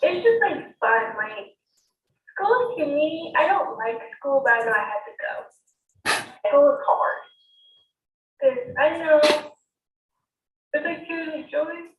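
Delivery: tearful, voice catching and wavering; choked up, pushing the words out between pauses; crying. Real, not acted. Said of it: "how come you're crying?".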